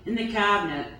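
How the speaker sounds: measured recital, phrase by phrase; poetry reading. Acted. Poet reading White Center as the last poem, measured recital. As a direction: give each image its own phrase and pause.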